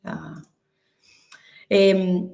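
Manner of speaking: usual speaking voice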